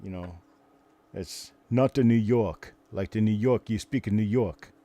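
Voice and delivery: imitated New York accent, lightly put on; beanie-hat New Yorker. Shown as a demonstration. Imitating New Yorkers heard at coin shows, New York accent. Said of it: "the beanie hat New Yorker".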